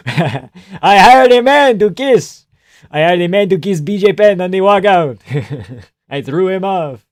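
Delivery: hammed-up fighter boast, slowed way down; mock Burns quote. Mocking Burns's walkout quote.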